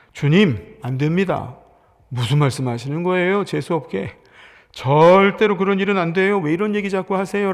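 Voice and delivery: Peter's alarmed, rising protest; angry protest. Retold or imitated. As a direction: push back at the Master in alarm. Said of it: "라고 화를 내죠".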